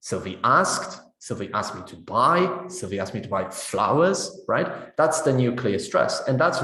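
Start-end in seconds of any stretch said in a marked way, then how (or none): 0.0-1.0 asked slowly stressed with a rise. Shown as a demonstration. Teacher showing students the stress on asked. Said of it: "You see how it changes". 1.2-2.7 buy stressed with a rise. Shown as a demonstration. Teacher showing students the stress on buy. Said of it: "You see how it changes". 2.7-4.4 flowers stressed with a rise. Shown as a demonstration. Teacher showing students the stress on flowers. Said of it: "You see how it changes".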